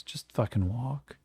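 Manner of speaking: quiet, slow, clipped-down threat; curt low order. Acted. Yakim orders the gunman to walk, low and slow. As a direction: growl it low and tired. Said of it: "He goes".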